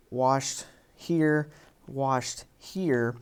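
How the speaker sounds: slow, deliberate stress on each "washed"; slow pointing emphasis. Shown as a demonstration. Teacher pointing out "washed" to the class, slow and stressed. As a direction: lean on "washed here" slowly, word by word. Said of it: "is repeated, again, to add a sense of clarity".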